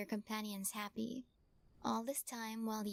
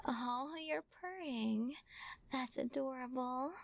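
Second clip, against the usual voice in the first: cooing; 3 semitones higher than usual. Acted. Cat starts purring.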